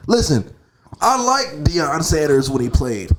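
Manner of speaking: hammed-up coworker quote; coworker impression. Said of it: "a nigga was like".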